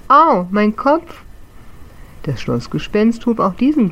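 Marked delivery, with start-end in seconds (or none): 0.1-1.2 high, louder and slow pained whimper; wailing. Acted. Little ghost who fell out of the book wailing in pain. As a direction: moan about the bumped head. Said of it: "hockte jammernd auf dem Boden".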